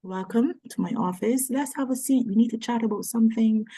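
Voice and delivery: polite, smooth cabin crew voice; flight attendant voice. Retold or imitated. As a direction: greet them like a flight attendant. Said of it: "use my air hostess voice".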